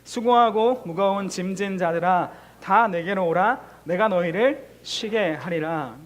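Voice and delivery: measured unison reading, each phrase drawn out; slow recitation. Shown as a demonstration. Pastor leading the church in reading Matthew, slow recitation. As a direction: read the verse aloud slowly with the congregation. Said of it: "우리 소리 내어서 한번 읽어보겠습니다".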